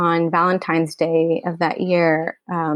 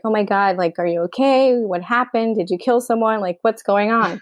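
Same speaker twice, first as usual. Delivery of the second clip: mildly worried, retold brother's questions; 3 semitones higher than usual. Brother woken by late-night call from crying sibling, mildly worried.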